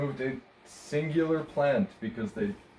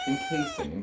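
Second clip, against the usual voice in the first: squeaky pitch; 3 dB quieter, slower than usual. Acted. Playful word list.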